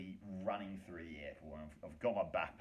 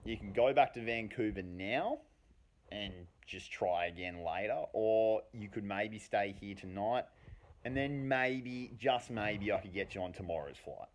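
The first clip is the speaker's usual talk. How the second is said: manager; 3 semitones higher, 9 dB louder than usual. Retold or imitated. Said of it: "he's like".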